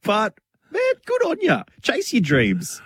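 hammed-up encouragement, pitch leaping up; mock cheer. Cheering on a friend who face-planted, hammed-up high cheer. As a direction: jump way up high for a cheesy pep-talk cheer.

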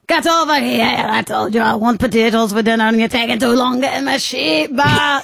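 hammed-up irate farmer with a wobbly Irish accent; fuming Irish farmer. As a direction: rant at the dog as a cross old Irish farmer. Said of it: "you're, you're fuming".

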